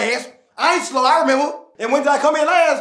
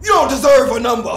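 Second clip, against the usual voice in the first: roasting rant. Acted. Dad roasts son's rap.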